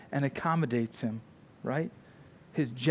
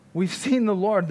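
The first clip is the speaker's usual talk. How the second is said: excited disciples' announcement, higher pitched; excited, emphatic; 5 semitones higher, 4 dB louder than usual. Retold or imitated. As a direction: retell it with eager emphasis. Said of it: "They're so excited, it's emphatic".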